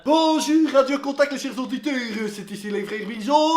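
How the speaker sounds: big morning-show opener rattled out to listeners; radio host. Acted. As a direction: belt out a radio intro. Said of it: "à la radio, ils parlent pas aussi vite".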